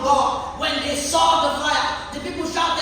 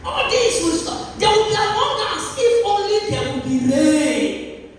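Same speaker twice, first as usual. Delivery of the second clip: higher and louder, drawn out; rising proclamation; 5 semitones higher, 5 dB louder than usual. Acted. Preacher proclaiming to the congregation, loud and rising. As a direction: build it up like a promise.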